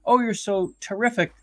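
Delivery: sarcastic, sing-along gushing; gushing puff-piece flattery. Acted. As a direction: imitate a starstruck interviewer piling on compliments. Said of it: "a puff P R kind of a".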